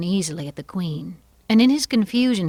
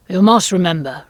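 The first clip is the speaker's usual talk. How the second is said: loud royal demand; commanding king; 2 semitones higher, 10 dB louder than usual. Acted. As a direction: order the witness at full voice. King threatens the witness.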